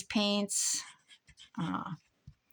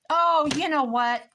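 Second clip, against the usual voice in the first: sudden loud, higher outburst; real yell; 6 semitones higher, 10 dB louder than usual. Real, not acted. Crafter struck by a sudden idea, yelling. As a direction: blurt it out at a yell. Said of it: "I'm sorry I yelled".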